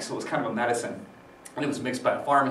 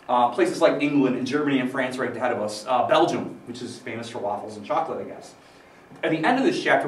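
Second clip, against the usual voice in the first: chewing while talking. Real, not acted. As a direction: mouth full, chewing. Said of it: "Still chewing banana peel".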